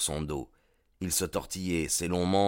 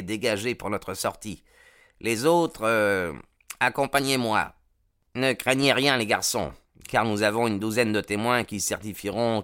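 gang leader giving orders; 3 semitones higher than usual. Acted. Baldwin briefing his men before the raid, firm orders.

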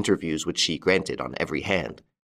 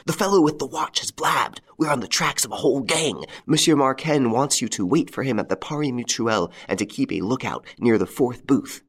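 hurried; 5 semitones higher than usual. A narrator's reading. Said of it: "said to him hurriedly".

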